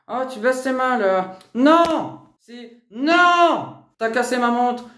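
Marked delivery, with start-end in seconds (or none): 1.5-2.2 loud, higher refusal; real screamed no; angry shout. Real, not acted. Struggle with mother. 2.9-3.8 loud, higher refusal; real screamed no; angry shout. Real, not acted. Struggle with mother.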